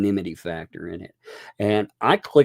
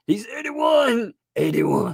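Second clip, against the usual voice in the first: much higher, slowed mock-shocked He's eighty-one; mock outrage; 14 semitones higher than usual. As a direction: fake horror, laughing.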